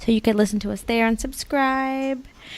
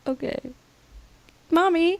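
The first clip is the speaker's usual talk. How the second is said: put-on higher, small toddler voice giving in; meek little girl; 7 semitones higher, 4 dB quieter than usual. Mom imitating her daughter answering her, meek child voice. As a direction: play the daughter obeying sweetly. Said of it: "she's just like".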